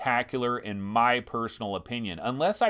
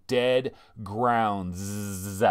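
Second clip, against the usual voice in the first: very slow, drawn-out title with a buzzing final s; slow, ponderous name reveal; hammed-up title reveal; 4 semitones lower than usual. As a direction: stretch each word like a mock announcer. Hams up the game's title.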